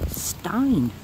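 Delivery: attempted German pronunciation; poor German accent. Finder reading a brick's lettering, poor German accent. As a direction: read it out in a rough German accent. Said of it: "that's my poor German accent".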